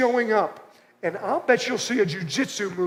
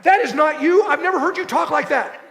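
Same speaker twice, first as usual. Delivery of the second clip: mock exasperated retort; 5 semitones higher, 3 dB louder than usual. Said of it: "I'm like".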